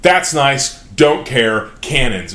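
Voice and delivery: loud, curt brush-off; dismissive dwarf king. Retold or imitated. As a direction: toss it off, then order the cannons. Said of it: "the dwarf king is like".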